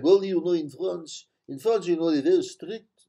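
half-hearted attempt at a French accent; bad French accent. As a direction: imitate a Frenchman, with the French accent not quite landing. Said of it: "I can't do a French accent".

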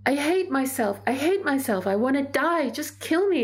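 high, anguished imitation of a child, not screamed; hysterical child, retold. Second grader on mother's lap, retold hysterical despair. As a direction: relive a child's desperate outburst without shouting. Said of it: "He would be thrashing around and screaming".

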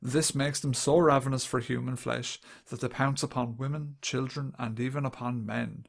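put-on understated dramatic read of an old report. Shown as a demonstration. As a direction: read it out with mild solemnity. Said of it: "I'll just do it, like, dramatically".

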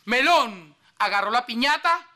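hammed-up declamation, rising on the last line; verse recital. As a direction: recite it like grand poetry. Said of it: "que versa así". (recitando versos con solemnidad exagerada)

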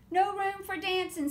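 high, loud "No room for dancing"; bossy frogs. Acted. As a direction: scold her out of the way. The frogs tell Betsy off.

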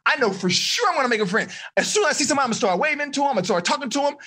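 excited self-talk. Shown as a demonstration. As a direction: pump yourself up for friend making day. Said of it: "So that is excitement".

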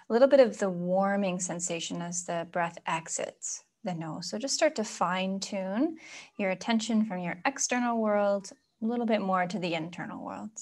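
soft, unhurried meditation guidance; guided meditation. Acted. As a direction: ease them gently inward, leaving room for breath. Leads a breathing meditation.

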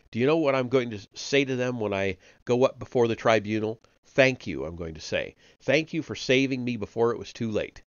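a hint of a nervous, eager-to-please chap; anxious Parsons. Parsons begs Winston for reassurance in the cell, lightly voiced and anxious.

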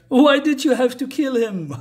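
can't keep a straight face reading it; laughing through the line. Real, not acted. A reviewer reading a crying character's line while laughing.

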